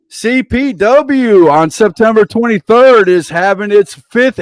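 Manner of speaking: wrestling announcer plugging upcoming shows; event promo read. Real, not acted. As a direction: punch out event names like a ring announcer. Host runs through show promos.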